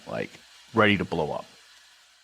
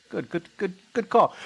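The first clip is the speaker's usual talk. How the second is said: sarcastic praise; 11 semitones higher than usual. Retold or imitated. Acts sarcastic praise of the major.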